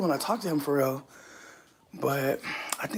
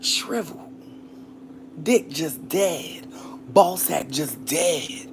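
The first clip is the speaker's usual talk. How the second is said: slow whisper; much slower than usual. Real, not acted. Whispered slow mock eulogy.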